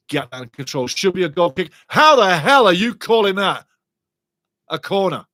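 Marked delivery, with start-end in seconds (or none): 1.9-5.2 loud, higher-pitched disbelief; indignant protest. Real, not acted. Commentator disputing the referee's corner decision, indignant shout. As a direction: raise your voice in outrage at the call.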